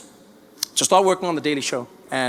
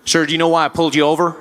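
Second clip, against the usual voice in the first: lightly voiced American traffic cop; American policeman; 4 dB louder, faster than usual. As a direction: question a driver as an American officer. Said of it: "Policeman walked up to my window".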